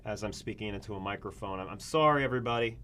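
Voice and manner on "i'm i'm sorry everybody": mock emotional plea, fast at the peak; emotional student. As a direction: overcome student begging everyone to bow. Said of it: "I'm just really emotional right now".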